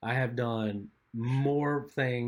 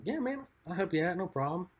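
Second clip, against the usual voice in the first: higher, bright "sure thing"; higher-pitched eager agreement; eager yes; 9 semitones higher than usual. Retold or imitated. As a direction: say yes like it's no trouble. Eager reply to brother.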